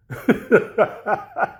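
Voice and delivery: airless rising laugh; gleeful unvoiced laugh; breathy laugh. Real, not acted. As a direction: laugh at your own joke. Laughing at own threat.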